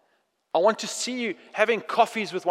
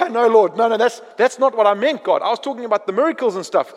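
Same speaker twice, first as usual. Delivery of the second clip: louder, hurried mock panic, taking it back; flustered backpedal; 5 dB louder than usual. Believer backpedals to God in loud mock panic. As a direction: scramble to undo the promise.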